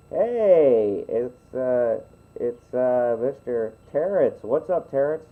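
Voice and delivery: hammed-up villain hello; villain greeting. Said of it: "projecting my villainous voice".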